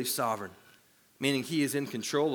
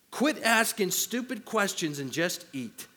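slow, fed-up put-down; exasperated retort; 3 semitones higher than usual. Retold or imitated. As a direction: brush off the silly question. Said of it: "He said".

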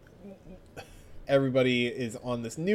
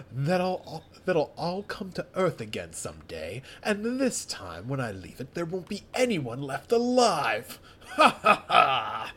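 menacing villain voice. Acted. Vegeta villain line.

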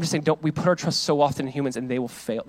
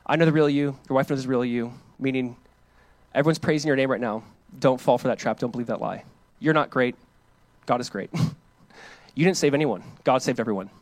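quiet mentor advice; 4 semitones lower, 5 dB quieter than usual. Retold or imitated. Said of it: "and he goes".

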